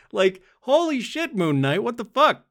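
high, loud thrilled shout; excited outburst. Real, not acted. Fan shouting at the show's twist, excited. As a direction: burst out at the twist. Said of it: "reacting to the scene".

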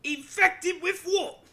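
high, slow, loud shocked cry; mock shocked. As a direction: stretch it out in outrage.

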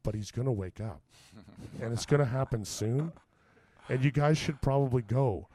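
low, measured, unhurried warning; calm warning. Retold or imitated. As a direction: spell it out calmly, with long pauses. Friend calmly warns the attackers.

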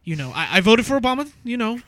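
lightly voiced hesitant white caller; stammering mock-earnest white-guy impression. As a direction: fumble politely through a mock complaint. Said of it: "I'll put on my white voice".

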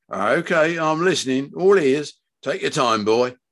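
indulgent father. Acted. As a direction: play a dad ready to hear his son out. Father's voice in narrated story.

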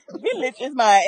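"vengeance" said as "village"; amused repeat with "vengeance" turned into "village"; mispronounced quote. Retold or imitated. Granddaughter laughing at grandmother's slip, "vengeance" said as "village". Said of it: "she said it three or four times".

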